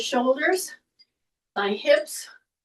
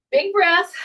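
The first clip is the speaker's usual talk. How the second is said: coach's call; 7 semitones higher, 5 dB louder than usual. Real, not acted. Coach cues the class breath.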